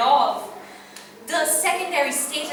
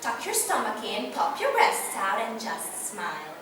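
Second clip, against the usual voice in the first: oppressive advice; 2 semitones lower, 3 dB quieter than usual. Acted. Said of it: "oppressed by sentences like".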